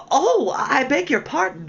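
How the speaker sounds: high, slow, flustered "Oh, I beg your pardon"; hasty apology. A narrator's reading. Alice hastily apologising to the startled mouse, high. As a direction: apologise in a rush of alarm. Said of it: "cried Alice hastily".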